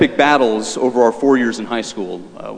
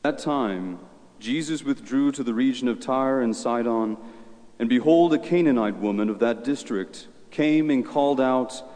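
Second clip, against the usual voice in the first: solemn gospel reading, echoing church; cathedral echo; 8 dB quieter than usual. Acted. Priest proclaims the gospel at Mass.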